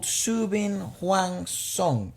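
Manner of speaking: slow attempt with a Latino-sounding accent; unintended Latino accent. Real, not acted. Host attempts a Vietnamese song title, accidental Latino accent. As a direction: sound accidentally Latino, stretching out each foreign word. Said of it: "You sounded so Latino there".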